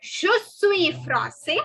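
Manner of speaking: français ending in 'say' with no final s; slowly, français as 'frahn-say'; masculine, silent S. Shown as a demonstration. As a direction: drop the last s of français. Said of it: "The last S is not to be pronounced".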